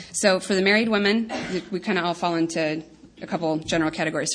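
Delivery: light laugh through the words. Real, not acted. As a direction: say it while chuckling. Laughing while addressing married women.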